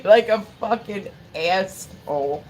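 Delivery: real rueful laugh through the words, slowed; laughing at herself. Real, not acted. Telling the stream about crying in the store, rueful laughing. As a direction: laugh at how silly you looked crying.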